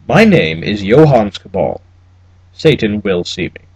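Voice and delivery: put-on slow, low, cold German accent; a necromancer naming himself in a cold German accent; clipped German accent. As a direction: state your name like a threat in a German accent. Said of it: "Cabal's accent was clipped and fatally Teutonic".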